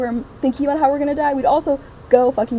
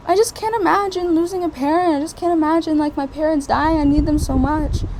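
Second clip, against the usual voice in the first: higher mock-anxious gushing; imitating people; 6 semitones higher than usual. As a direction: parody self-centred sympathy. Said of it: "they were like".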